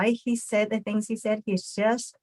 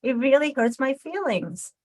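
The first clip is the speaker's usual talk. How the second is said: higher voice telling of hurt feelings; hurt, still upset; 5 semitones higher than usual. Retold or imitated. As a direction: let them know it still stings. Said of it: "I say".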